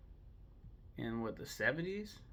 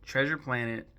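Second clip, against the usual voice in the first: Treasure Planet called out louder, like answering a shouting crowd; loud announcement; 6 dB louder than usual. Shown as a demonstration. To viewers yelling at him, a louder shout of the title. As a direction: belt out the title over the noise. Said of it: "Stop yelling at me".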